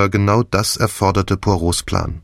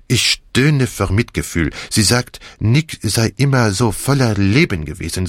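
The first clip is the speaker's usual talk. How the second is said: Poirot voice. Acted. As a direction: play the gleeful plotting Belgian with big swings.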